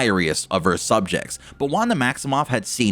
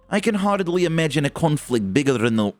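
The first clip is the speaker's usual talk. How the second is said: a hint of a Russian accent; lightly Russian-tinged line; 4 semitones higher than usual. Shown as a demonstration. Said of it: "probably can't do the Russian accent".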